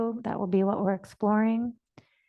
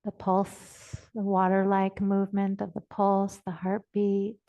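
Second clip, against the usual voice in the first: measured, even phrases, long silences between; guided meditation. Real, not acted. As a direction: guide listeners unhurriedly into the body. Leads a body awareness meditation.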